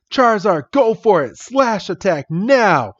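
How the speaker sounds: high, urgent acted call; rally your fighter, drawing out the last order; trainer's battle command. Red sends Charizard into attack, hammed-up commanding.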